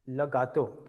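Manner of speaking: "gâteau" modelled as ga-toh after a short "Le"; teacher demonstrating French "gâteau", falling at the end; French pronunciation. Shown as a demonstration. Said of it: "you have to speak like this".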